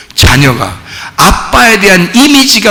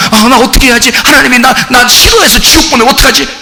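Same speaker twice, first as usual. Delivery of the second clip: mock anxious worry; 5 semitones higher, faster than usual. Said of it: "힘들고 막 괴롭고".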